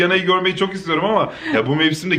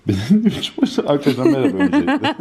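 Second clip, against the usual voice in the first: laughing; 5 semitones higher, 4 dB louder than usual. Real, not acted. Greets viewers while laughing.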